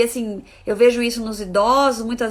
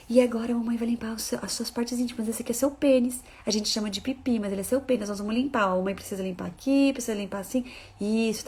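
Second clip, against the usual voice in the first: softer, calm explaining voice; gentle mother; 4 dB quieter than usual. Retold or imitated. Mother to her child while cleaning her, soft gentle voice. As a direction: talk the child through it tenderly.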